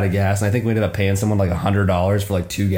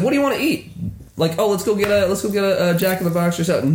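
mock road-trip buddy; 9 semitones higher, faster than usual. Acting friends choosing road food.

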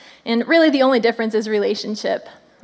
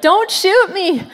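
mock plea; 6 semitones higher, 4 dB louder, slower than usual. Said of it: "run through the shooting and say".

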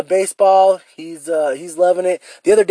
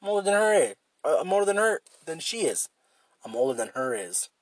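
softer, half to himself; inner monologue; 3 semitones higher, 9 dB quieter than usual. Retold or imitated. Tells viewers what his brain said, quiet self-talk. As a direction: argue with yourself quietly. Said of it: "And I was like".

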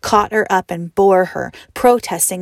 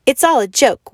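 mocking cry; 5 semitones higher, 6 dB louder than usual. A narrator's reading. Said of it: "he cried".

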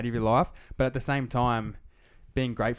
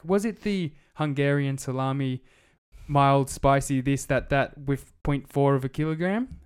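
robot voice; 2 semitones higher, slower than usual. Retold or imitated. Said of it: "She's like".

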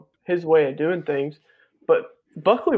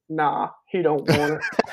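put-on slow, laughing, laid-back drawl in his buddy's accent; unbothered, slow, through a laugh, in his buddy's way of talking; Buckley's accent; slower than usual. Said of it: "In that accent that he has".

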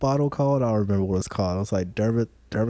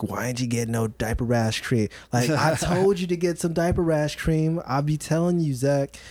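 lightly voiced scolding partner, rising higher as it goes; mock nagging, lilting up in pitch; imitating nagging partner; 4 semitones higher than usual. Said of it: "mother of my child would always be like".

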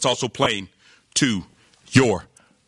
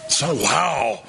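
mock fired-up; 4 semitones lower, slower than usual. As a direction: play a sun worshipper thrilled by good weather. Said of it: "all of a sudden, we're fired up".

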